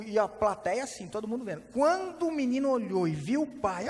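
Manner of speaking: normal talking voice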